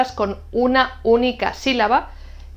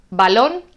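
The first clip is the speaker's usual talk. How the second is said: "balón" stressed on the final lón; stress on last syllable. Shown as a demonstration. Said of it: "tienen acento en la última sílaba".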